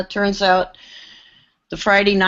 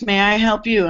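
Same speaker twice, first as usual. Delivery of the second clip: firm retort turning "may I help you?" back on him; pointed comeback; 3 semitones higher than usual. Retold or imitated. New assistant answering the condescending engineer, firm and pointed. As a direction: flip the question back at him, confident. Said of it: "question is".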